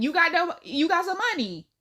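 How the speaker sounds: chirpy, loud phone chat voice. Retold or imitated. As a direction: sound like a friendly phone call. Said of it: "talking like I'm on the phone with him".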